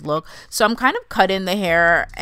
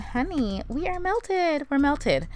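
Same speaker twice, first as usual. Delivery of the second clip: excited; 8 semitones higher, slower than usual. Real, not acted. Proud reveal of melted lace.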